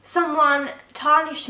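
high, fast, outraged how dare; replaying the outrage sharply; indignant outburst. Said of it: "my shock was turning into anger".

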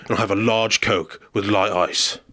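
deadpan gruff order; lightly voiced tough guy; Jason Statham. Statham ordering without looking at the speaker, deadpan. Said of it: "So he's like".

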